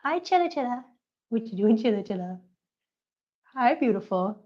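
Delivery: cooing hellos to a pet; pet greeting voice. Real, not acted. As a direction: coax the kitty over sweetly. Greeting the cat on the floor.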